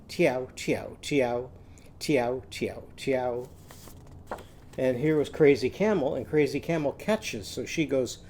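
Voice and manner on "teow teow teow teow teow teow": mock cat meow. Shown as a demonstration. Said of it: "Timmy's cats are saying".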